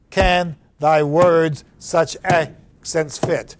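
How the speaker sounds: Can, words, accents and fit each hit strong, the other syllables light, slow; trochaic beats. Shown as a demonstration. Teacher marks the trochaic beats for students, slow and stressed. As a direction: tap out long short on Can thy words such accents fit. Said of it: "Long, short, long, short".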